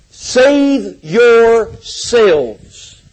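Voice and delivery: very slow, each word stretched out; drawn-out proclamation. Acted. Preacher quoting Acts to clinch the argument, drawn-out proclamation. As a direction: stretch both words for emphasis. Quotes the climactic verse.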